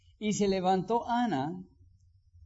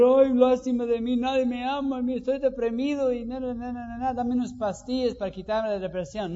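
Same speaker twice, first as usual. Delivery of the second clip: mock self-pity; 4 semitones higher than usual. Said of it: "Pues decir".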